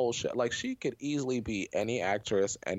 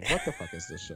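pitched way up, baffled; mock baffled squeal; faster than usual. Shown as a demonstration. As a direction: repeat it high and incredulous. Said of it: "Good question".

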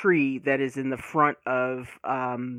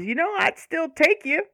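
imitating Rosina; 11 semitones higher than usual. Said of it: "she basically says".

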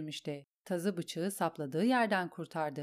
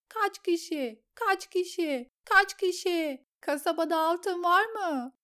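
climbing ever higher, shrieking questions; frenzied yelling; 6 semitones higher, 3 dB louder than usual. A narrator's reading. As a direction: shriek it over and over as she stabs. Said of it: "diye bağırdı Arya". (çılgınca bağırarak)

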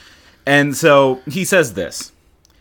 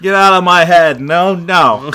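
hammed-up Jake; 5 dB louder, slower than usual. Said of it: "Jake does not sound like that".

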